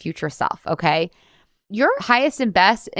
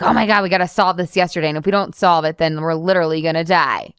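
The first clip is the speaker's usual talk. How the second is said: mock panicked. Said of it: "diet brains are really dramatic and, like, kind of panicked".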